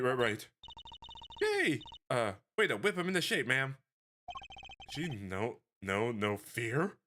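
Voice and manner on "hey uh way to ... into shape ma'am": put-on excited girl voice. Girl partner cheering.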